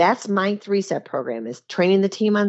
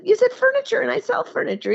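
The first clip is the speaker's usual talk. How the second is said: excited. Retold or imitated. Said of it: "And I said".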